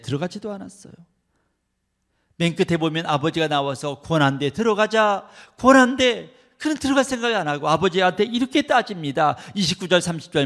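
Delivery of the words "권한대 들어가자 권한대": loud, high father begging his son to come in; pleading father. Acted. 아버지가 화난 맏아들을 달래며 큰 소리로 간청. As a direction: call him in, urgent and loud.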